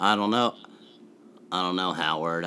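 low, quiet mumbling Sandler; reserved Sandler. Retold or imitated. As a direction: talk low with jaw half closed. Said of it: "cool and reserved too".

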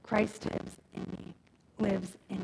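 soft, slow Christ lives in me; the four words said softly and slowly; quiet and slow. Shown as a demonstration. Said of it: "it really is these four words".

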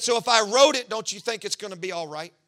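God rousing his worried son; preaching God's reassurance. Retold or imitated. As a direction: press the point with fire. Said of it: "He said".

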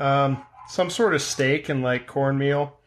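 speaking while chewing dinner; words muffled by a mouthful; mouth full. Real, not acted. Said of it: "With my mouth full?".

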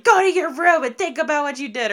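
imitating a parent sending a kid off; mock mom yell. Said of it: "my mom just yells at her".

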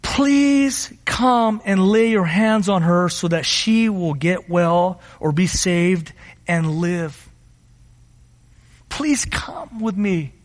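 slow, drawn-out entreaty; imploring, weighted and unhurried; earnest pleading. Acted. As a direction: plead slowly, letting each phrase hang. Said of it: "he implored him earnestly, begged Jesus".

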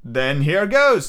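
slow, mildly fierce launch into attack; swearing oath. Acted. Old seaman springs up with his knife, mild oath. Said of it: "said Morgan with an oath".

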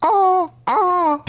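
high, loud shrieking screech; shrill screeching wyvern. Shown as a demonstration. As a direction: screech like a flying reptile. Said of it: "make a pterodactyl noise".

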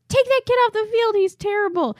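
high-pitched shout from the sidelines; mock heckling yell. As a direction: heckle the kid, imitating an irate parent. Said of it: "is on the side of the field yelling".

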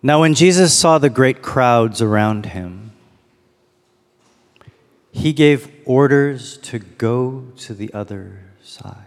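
unhurried scripture reading, room to contemplate; slow reading. Real, not acted. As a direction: read the verse slowly and deliberately. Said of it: "I'm gonna read each verse slowly".

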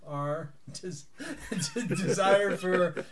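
breaking into laughter, stretching des- desire for very slowly; can't hold it together, laughing the words out; laughing through words. Real, not acted. Player fighting giggles during in-character speech, laughing. Player cracking up mid-sentence.

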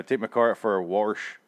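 "wash" said with an R slipped in, "warsh"; regional "warsh". Retold or imitated. Mocking how locals say it, "wash" as "warsh". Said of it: "There's no R in that word".

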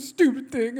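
mock tearful grumble; half crying, half angry, acted out; hammed-up upset muttering to yourself; partly crying, mad. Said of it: "partly crying, partly mad".

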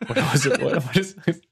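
imitating Eddie Bravo; Eddie Bravo impression. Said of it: "doing the Eddie Bravo impressions".

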